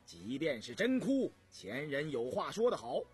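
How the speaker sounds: retorting. Acted. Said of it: "一口顶了回来".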